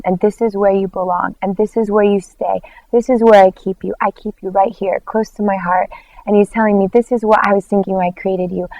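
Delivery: soft, loving retold voice; tender reassurance. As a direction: reassure softly, holding someone close. God speaking lovingly to her.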